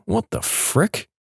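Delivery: breathless whisper, slow; whispered thought. Retold or imitated. Bystander thinking at the rude driver, slowly whispered. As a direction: breathe it to yourself in disbelief. Inner thought while standing there.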